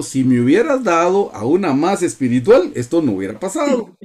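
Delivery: queja imitada, tono algo más agudo; reproche actuado. Acted. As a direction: imitar a quien culpa a otro con leve indignación. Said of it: "porque le dijo". (reproche fingido)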